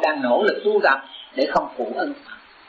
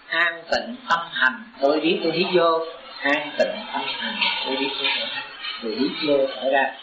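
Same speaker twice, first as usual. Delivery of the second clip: breathing-practice recitation. Shown as a demonstration. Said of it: "thì mình nhắc".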